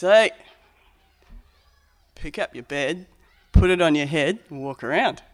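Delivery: offhand cheery command; casual Jesus. Acted. Jesus telling the man to walk, breezy. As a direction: toss it off like a joke. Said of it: "in a way we might tell a story at the pub".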